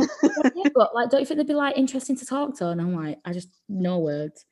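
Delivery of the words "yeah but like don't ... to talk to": high-pitched imitation of the girl. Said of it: "She went".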